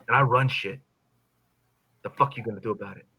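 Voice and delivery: low, soft taunting devil; cold threat after the roar; quiet menace. Acted. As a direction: drop to a dark murmur. Menacing close after climax.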